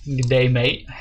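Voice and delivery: a mock Australian greeting, lightly done; jokey Australian accent attempt, not quite British. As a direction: try an Aussie "good day, mate". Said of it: "that's more Australian".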